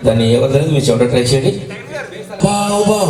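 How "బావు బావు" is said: mimicked barks; short woofs; dog barking. Shown as a demonstration. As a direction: bark twice. Guess-who dog voice.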